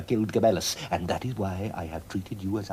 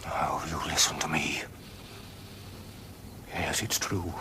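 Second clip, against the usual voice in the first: urgent whisper; 4 semitones lower, 5 dB quieter than usual. Acted. Father's urgent secret confession.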